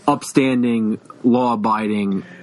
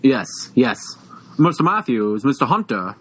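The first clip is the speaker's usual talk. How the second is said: mock Boston Brahmin accent; Mister Feeney. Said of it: "a Boston Brahmin accent".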